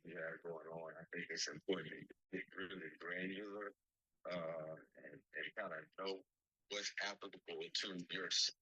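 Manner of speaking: muffled, distorted call audio; garbled phone line. Real, not acted. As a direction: sound like a bad phone connection. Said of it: "You sound a little garbled".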